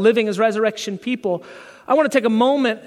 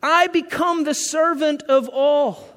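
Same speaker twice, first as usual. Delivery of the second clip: higher, slow commanding call; Jesus commanding; 4 semitones higher, slower than usual. Retold or imitated. Jesus telling his disciples to serve, proclaiming. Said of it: "He says".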